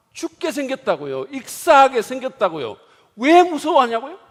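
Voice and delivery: high, loud, exasperated shouting; indignant protest. Acted. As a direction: storm back at him in disbelief. Disciples protesting to Jesus.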